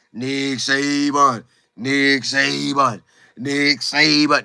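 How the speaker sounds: slow, reverent repeating of the name; drawn-out worshipful chant of the boss's name; staff fawning over Saban. Retold or imitated. Staff members trying to win the coach's approval, slow reverent tone. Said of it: "they probably like".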